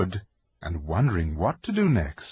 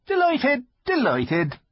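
high, timid fawn voice; nervous polite faun; shy fawn voice; slower than usual. Acted. Fawn character voice.

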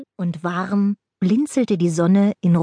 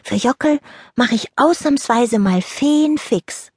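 sleepy fairy voice; 5 semitones higher than usual. Acted. Niki still sleepy, grudging.

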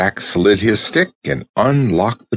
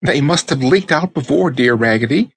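dolls agreeing; 7 semitones higher than usual. Acted. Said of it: "dolls agree".

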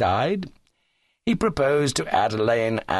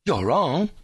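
mildly earnest objection, pitched up; understated earnest suitor; 7 semitones higher than usual. A narrator's reading. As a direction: contradict with a touch of sincerity. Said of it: "said Cuthbert earnestly".

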